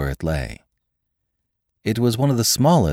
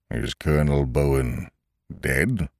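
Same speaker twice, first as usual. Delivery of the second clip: quiet, lower, unbothered; calm; 3 semitones lower, 3 dB quieter than usual. A narrator's reading. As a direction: ask it with eerie calm. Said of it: "said the smith quite calmly".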